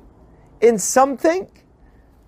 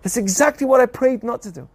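higher, affronted excuse me; mock offended comeback; indignant retort; 4 semitones higher than usual. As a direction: throw the accusation back. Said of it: "He says".

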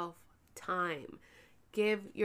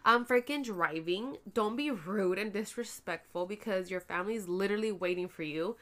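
angry telling off. Retold or imitated. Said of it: "I would have been like".

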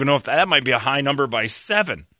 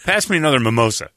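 laughing; 4 semitones higher, faster than usual. Real, not acted.

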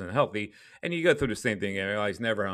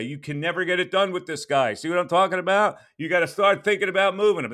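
loud, high, exasperated fan voice; frustrated fan rant; 9 semitones higher, 6 dB louder than usual. Retold or imitated. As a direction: mimic an angry Philly caller. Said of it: "people in this town are gonna say".

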